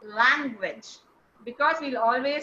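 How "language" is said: "language" set apart and stressed, dropping low. Shown as a demonstration. Teacher to online class, isolating the stressed word. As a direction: land firmly on "language". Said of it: "you will stress on".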